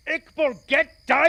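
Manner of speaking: high, loud desperate yell; frantic warning shout. Acted. Hilliard yelling at Iqbal to get down, desperate. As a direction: cry out to make him drop. Repeated warning about gunman.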